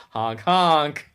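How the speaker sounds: honking like a clown horn; a loud, goofy honk honk; silly clown. Pretend. Clown joke, imitating horn.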